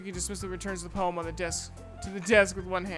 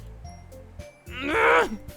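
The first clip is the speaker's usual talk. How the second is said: rising growl of frustration; frustrated grunt; 4 semitones higher than usual. Acted. Natsuki fuming at Yuri's rebuff, frustrated grunt.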